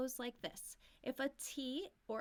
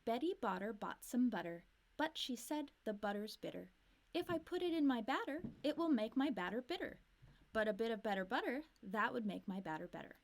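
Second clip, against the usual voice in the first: whole twister run through quicker; faster. Shown as a demonstration. Teacher tries the twister faster as a challenge. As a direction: speed it up as a challenge. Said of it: "Let's try this faster".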